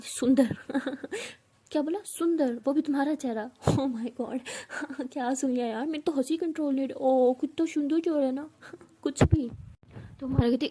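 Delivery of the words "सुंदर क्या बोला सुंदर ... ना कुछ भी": laughing through the words in scorn; mocking laughter. Aarshi laughing at Amara calling herself pretty. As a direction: cackle at the idea of her beauty. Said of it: "तो आरशी हंसने लगी".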